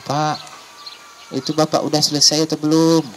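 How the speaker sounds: acted call to dad. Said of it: "Dipanggil bapaknya".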